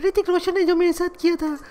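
lightly put-on dramatic actress voice; Kangana Ranaut impression. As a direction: play a wronged film star pleading her case. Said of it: "मेरा नाम है कंगना रनावत".

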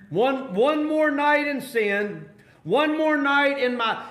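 high, drawn-out mock plea; mock bargaining. Preacher voicing sinners who put off salvation, mock pleading.

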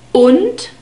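und with a short "oo" vowel; crisp teaching demo of short-vowelled und. Shown as a demonstration. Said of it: "We have a short U sound".

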